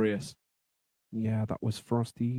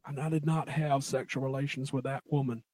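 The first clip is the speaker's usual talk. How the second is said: Bill Clinton; 6 dB quieter than usual. Retold or imitated. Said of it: "Gotta go deep for the Clintons".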